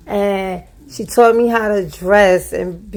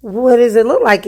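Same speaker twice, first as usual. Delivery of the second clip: sarcastic; 3 semitones higher than usual. Retold or imitated. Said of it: "It say sarcastic".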